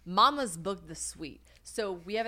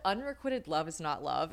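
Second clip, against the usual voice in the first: ordinary delivery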